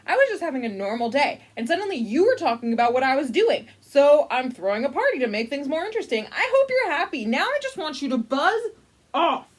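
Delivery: fast, irritated rant; exasperated alligator telling narrator off; snapping alligator. Acted. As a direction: rattle off the complaint, fed up. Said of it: "Snapsy snapped".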